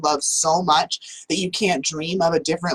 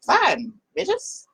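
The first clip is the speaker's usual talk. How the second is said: fed-up hen; 2 semitones higher than usual. Acted. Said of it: "And she's like".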